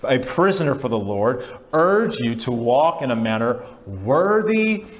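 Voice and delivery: slow, passionate reading aloud; impassioned scripture proclamation; loud scripture reading. Real, not acted. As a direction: proclaim it, stretching the key words. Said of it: "read those aloud and loudly".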